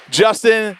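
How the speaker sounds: calling out a name across the room; yelling across the room. Real, not acted. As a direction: call out to him across the room.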